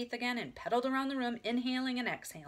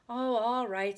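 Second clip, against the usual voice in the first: louder, grudging give-in; cross; 3 semitones higher, 6 dB louder, slower than usual. A narrator's reading. Big sister gives in, cross. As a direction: give in with annoyance. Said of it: "said Beezus crossly".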